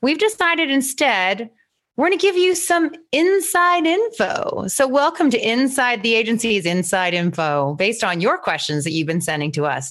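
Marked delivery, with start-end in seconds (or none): 0.7-7.8 radio announcer. Shown as a demonstration. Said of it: "Do I sound like a radio announcer?".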